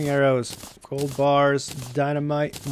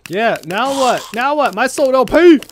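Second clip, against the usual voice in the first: loud, high-pitched battle taunt; taunting shout; 8 semitones higher, 9 dB louder than usual. Real, not acted. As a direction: crow at the enemy, getting louder and higher. Taunting enemies during a fight.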